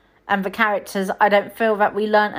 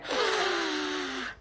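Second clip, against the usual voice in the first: sharp high gasp of shock; mock gasp; 7 semitones higher, 10 dB quieter than usual. Gasping at a reference while watching. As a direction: gasp as if a joke just landed. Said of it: "You look at some references and go".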